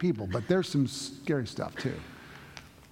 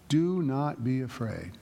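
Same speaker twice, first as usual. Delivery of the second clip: slow, deliberate Bible line; slow reassurance; slower than usual. Acted. Pastor reading Jesus' words to the church, slow and calm. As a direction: let each word settle gently. Reads the scripture aloud.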